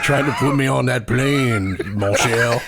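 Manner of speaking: Louisiana French lilt; Cajun accent. Pretend. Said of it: "Cajun accent".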